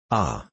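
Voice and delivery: low, pained groan; a low groan of regret. Acted. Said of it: "groaned J T Maston".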